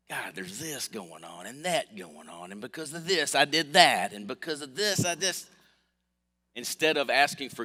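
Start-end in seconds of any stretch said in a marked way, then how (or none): 0.1-5.5 whiny complaint prayer. Retold or imitated. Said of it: "in a form of a complaint".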